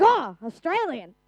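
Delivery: drawn-out, swooping mock American reaction; exaggerated American amazement, stretched out slowly; mock American accent. Australian preacher imitating Americans spotting her Vegemite, hammed-up American accent. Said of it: "That's not how they speak".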